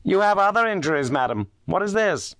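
startled, raising the voice; exclamation. A narrator's reading. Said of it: "Holmes uttered an exclamation".

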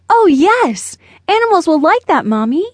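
put-on high, loud, delighted little boy; excited smile. A narrator's reading. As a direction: burst out with a smile, pitch leaping up. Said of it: "With an excited smile".

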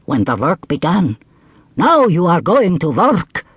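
high, commanding djinn; triumphant djinn. Acted. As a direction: gloat over the hump. Djinn shows the hump.

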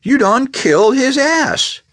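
high, loud alarmed cry; shocked cry. A narrator's reading. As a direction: yell it in disbelief. Shocked at the killing.

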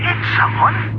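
slow, breathy disbelieving echo; aghast. Acted. Bill echoes the news, horrified.

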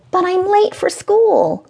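put-on high, whiny small boy; little boy voice. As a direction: plead like a late child. Child Tyler voiced.

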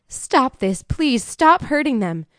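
high, drawn-out plea; desperate pleading. A narrator's reading. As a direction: implore him to leave the children alone. Mother begs attacker to stop.

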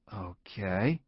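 soft, level and held in; evenly. A narrator's reading. Anxious employee answering evenly to hide fear. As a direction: keep it even to hide the nerves. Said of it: "I said evenly".

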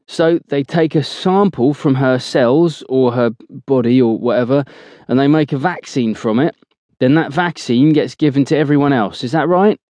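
slow and loud. Acted. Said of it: "Cookie asks slowly in a loud voice".

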